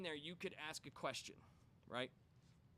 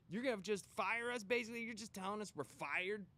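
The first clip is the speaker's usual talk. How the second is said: angry demand; 6 semitones higher than usual. Retold or imitated. Coworkers demanding answers.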